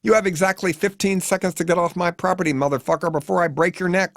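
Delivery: high, desperate threatening yell; wailing son. A narrator's reading. The son threatens the hitchhiker, wailing high. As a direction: bellow it like a wannabe movie thug. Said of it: "wails the son".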